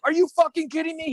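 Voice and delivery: high-pitched mock outrage; retold indignant disbelief, high; mock incredulous customer. Acts customer's expected angry protest.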